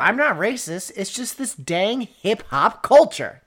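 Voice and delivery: slow, drawling mock racist excuse; mock bigot voice. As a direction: play a dumb bigot, hammed up.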